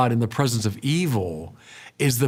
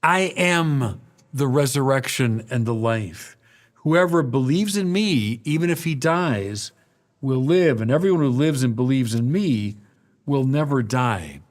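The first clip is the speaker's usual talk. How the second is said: solemn proclamation. Acted. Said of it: "Listen to him now".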